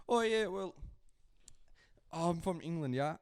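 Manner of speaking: attempted English accent. Shown as a demonstration. Friend showing how his accent attempts start, mock English accent. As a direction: put on a casual English accent. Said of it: "trying to do an English accent".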